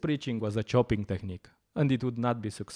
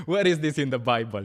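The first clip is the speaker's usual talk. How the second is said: laughing challenge; 3 semitones higher, 5 dB louder than usual. Real, not acted. Laughing at the Church's statement.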